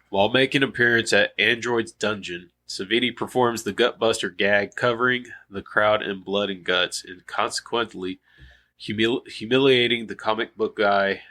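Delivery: stuffy nasally voice; reading through a blocked nose. Real, not acted. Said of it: "Excuse me for my nasally voice".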